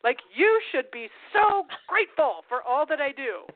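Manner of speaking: slow, heavily stressed demand for thanks; mock indignation. Neat freak telling a messy partner to be grateful, indignant. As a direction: draw out the self-righteous reproach.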